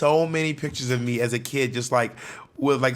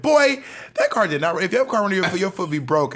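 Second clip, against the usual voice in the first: loud, high opening on a dismissive rebuke; mock-indignant mother voice; scolding mom; 5 semitones higher, 3 dB louder than usual. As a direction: imitate an exasperated mom shutting down nonsense.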